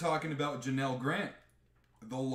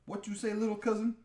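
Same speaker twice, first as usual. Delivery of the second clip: quick, higher, cocky taunt; The Rock taunting; 7 semitones higher, faster than usual. Retold or imitated. The Rock squaring up to Roman, cocky taunt. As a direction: toss it off with a smug grin. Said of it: "And The Rock's like".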